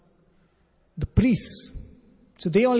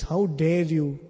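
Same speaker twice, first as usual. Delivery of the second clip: lightly acted royal indignation, building to a firm command; offended king. Offended king orders the boy to stop, mildly indignant. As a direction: imitate an offended king, rising in pitch as the order comes. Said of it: "The king gets offended".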